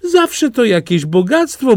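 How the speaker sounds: put-on high, fast voice of the old mother; mother's words, quoted by her son, in a high voice. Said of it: "mówiła matka".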